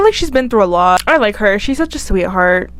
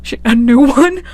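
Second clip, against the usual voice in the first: laughing, rising echo question; amused disbelief; 3 semitones higher than usual. Real, not acted. Vlogger catches her own callous wording, amused disbelief. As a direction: echo your own words in giggly disbelief. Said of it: "I don't know why I said it like that".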